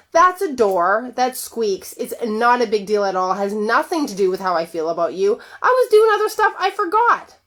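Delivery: lightly voiced husband waving it off; husband downplaying the door; dismissive husband. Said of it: "His reality is".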